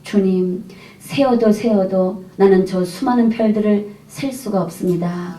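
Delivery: soft, slow tearful plea, fading to a hush; a quiet, choked-up prayer to the Lord; mild retelling of sobbing to God; retold weeping. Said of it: "제가 통곡을 하면서 제가 울었죠".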